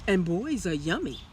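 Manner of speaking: very high, loud booming chant; booming giant. A narrator's reading. Giant sniffs for the hidden boy, loud and booming. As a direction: roar it out like a greedy giant.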